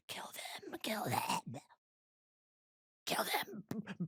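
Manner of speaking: a creepy whisper then a yell. Pretend. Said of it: "Remy's whispering in my ear".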